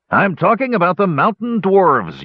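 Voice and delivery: high-pitched indignant yell. A narrator's reading. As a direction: shout it up high at Flint. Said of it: "yelled Hannock".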